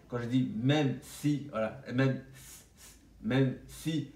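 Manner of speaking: 'même si' said slowly with a hissing, lisped s; the s of 'si' slushy and whistling; whistled s. Shown as a demonstration. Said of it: "les S, je les siffle un peu".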